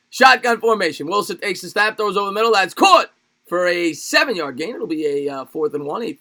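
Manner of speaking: punchy football game call; live play-by-play. Real, not acted.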